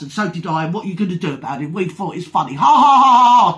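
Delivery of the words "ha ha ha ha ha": loud, high forced ha-ha; mocking laugh. Real, not acted. Gloating at the one being ranted at, mocking laugh. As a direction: laugh it out loud in their face.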